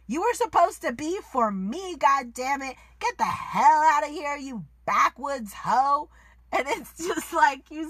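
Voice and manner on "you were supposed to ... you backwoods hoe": angry retold yell. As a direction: bark it out like a furious man throwing her out. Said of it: "when he tells Mercedes".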